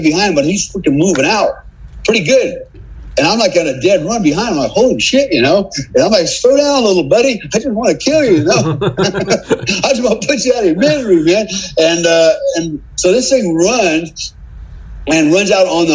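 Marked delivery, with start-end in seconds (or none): 4.7-5.3 startled exclamation. Retold or imitated. Chasing wounded deer on foot. 6.3-11.5 much higher pitched, laughing call after a running animal; mock pleading while chasing a deer; breathless chase call. Calling after fleeing deer mid-chase.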